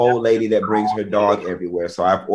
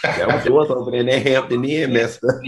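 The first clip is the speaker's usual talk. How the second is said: ordinary delivery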